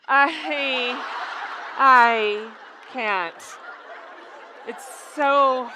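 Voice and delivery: words breaking up with laughing; too amused to finish the sentence; real laughing fit, halting words; helpless laughter. Real, not acted. Overcome with laughter at cake picture.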